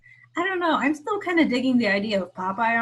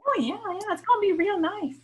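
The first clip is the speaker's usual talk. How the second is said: raised, sing-song Midwestern voice; Midwestern accent; 8 semitones higher than usual. Pretend. Joining the Fargo joke in a Midwestern accent. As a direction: play it up in a light Midwestern accent. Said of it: "the accent".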